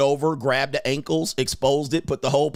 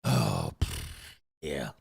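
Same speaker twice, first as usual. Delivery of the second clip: much lower, much softer unimpressed groan; deep bored groan; 10 dB quieter, much slower than usual. Retold or imitated. A man shrugging off insults, low and bored. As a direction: drop way down and sound totally unbothered. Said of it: "And you be like".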